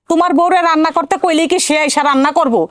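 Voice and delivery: high-pitched aggrieved grumbling; worked-up mother's grievance; indignant complaint. Acted. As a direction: complain about the daughter-in-law, pitch climbing. Mother complains bitterly about daughter-in-law.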